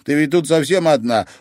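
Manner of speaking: a touch of tears; tearful granddaughter. Acted. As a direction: beg her to come along. Luiza apologizes, offers shelter.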